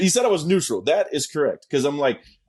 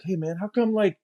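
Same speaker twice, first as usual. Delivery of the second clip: lightly voiced sweet, higher plea; sweet, mild imitation; 3 semitones higher than usual. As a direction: imitate a buddy gently asking. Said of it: "it was real sweet".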